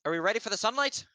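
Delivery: high, loud voice carried up from the ground; magically projected voice. Acted. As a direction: call up to them from far below. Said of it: "magically projecting her voice so you can hear it".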